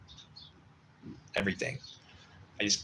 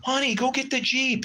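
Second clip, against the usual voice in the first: high, loud yell to his wife; 4 dB louder than usual. Retold or imitated. Buyer yelling to his wife to fetch the Jeep, eager yell. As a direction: call out eagerly down the street. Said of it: "he yells to her".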